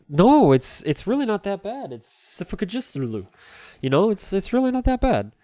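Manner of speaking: high-pitched defensive insistence; mock protest. Streamer defending the old name to doubters, high-pitched protest. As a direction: plead the case, voice climbing. Acting own protest in retold exchange.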